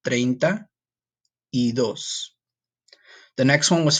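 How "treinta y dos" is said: treinta y dos said slowly and clearly; Spanish treinta y dos. Shown as a demonstration. Teacher modelling treinta y dos for the class.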